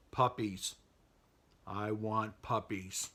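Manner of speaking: slow, deliberate hint of a villain; lightly villainous demand. Evil company man asks pet shop owner, mildly villainous demand. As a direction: draw out the sinister request slightly. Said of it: "a little Cruella de Vil action".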